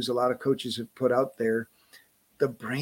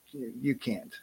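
dismissive brain voice; 4 semitones lower, 12 dB quieter than usual. Retold or imitated. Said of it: "And your brain goes".

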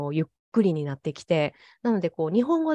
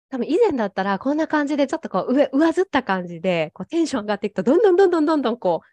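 fast, higher, louder, speeding up as she goes; old high-strung way of talking; 5 semitones higher, 4 dB louder, much faster than usual. Shown as a demonstration. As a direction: rattle it off faster and faster, pitch climbing. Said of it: "以前はどういう日本語だったかっていうのをちょっと話してみてもらえますか".

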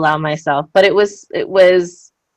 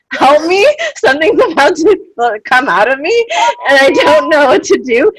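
mock panic; 8 semitones higher, 5 dB louder than usual. Retold panic plea, laughing.

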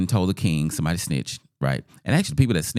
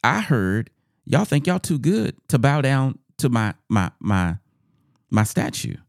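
higher, slow, self-important monarch; king questioning subjects; 6 semitones higher than usual. Acted. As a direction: confront them as an offended ruler. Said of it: "the king is questioning them".

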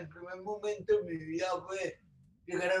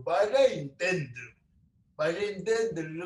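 firm mother. Retold or imitated. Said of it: "Mamá, todo lo contrario".

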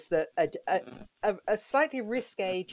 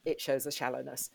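put-on older Jane scolding; 6 semitones lower than usual. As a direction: lightly voice a grown woman chiding her younger self. Voicing older Jane scolding her teenage self.

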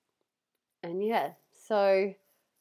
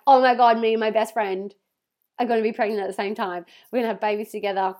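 loud, thrilled and gushing; loud happy gushing, a touch fast at the end; loud excited gush; 7 dB louder than usual. Retold or imitated. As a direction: blurt it out in delight. Retold excitement about pregnancy.

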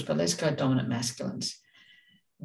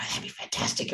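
casual to a masculine; 4 semitones lower, 6 dB quieter than usual. Shown as a demonstration. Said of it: "Whereas to another masculine, we go".

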